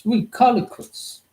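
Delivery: "We call it quits" stretched slow and pitched high; drawn-out high sing-song. Pretend. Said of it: "So we go for another minute and then we call it quits".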